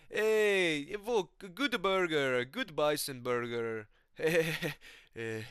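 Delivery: slow, stoned put-on voice; Shamil. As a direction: chuckle and drag out each word as a stoner. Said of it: "Shamil's sitting there".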